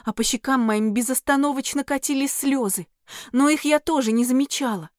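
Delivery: ordinary delivery, nothing marked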